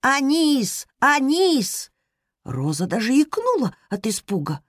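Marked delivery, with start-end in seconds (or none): 0.0-1.9 high rattling call from the cauldron; rattling shout. Acted. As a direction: shout it like a rattling old pot. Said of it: "котёл закричал дребезжащим голосом". (дребезжащий крик котла)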